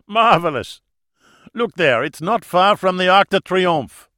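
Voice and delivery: put-on high, loud accented joviality; German host, amused. A narrator's reading. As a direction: play along with the joke, booming. Villain host's accented voice.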